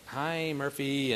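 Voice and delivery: slow, half-hearted mock greeting; reply like a wary planeful of strangers; drawn-out, unenthused imitation; passengers' reluctant reply. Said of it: "so people are like".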